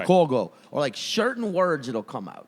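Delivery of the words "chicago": Chicago with a rounded "caw" vowel; imitating a "Shi-caw-go" Chicago; imitated Chicago pronunciation. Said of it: "that's how he says it".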